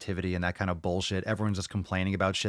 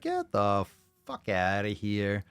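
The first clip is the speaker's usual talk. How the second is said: slow, drawn-out imitated disbelief; mock disbelief; slower than usual. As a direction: stretch it out like an incredulous listener. Acting out a disbelieving listener.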